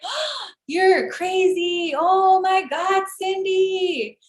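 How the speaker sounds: high, drawn-out sing-song protest; slow, high-pitched mocking imitation; mock backpedalling. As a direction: mimic someone brushing it off with exaggerated, stretched words. Mimics passive-aggressive people backpedalling.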